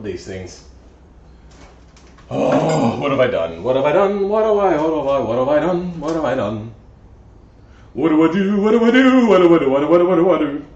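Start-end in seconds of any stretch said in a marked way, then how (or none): 2.3-6.7 mock panic. Panicked repeated lament. 7.9-10.6 loud, rising panicked chant, a hammed-up "what do I do"; mock panic. Mechanic to stream chat, in hammed-up loud panic.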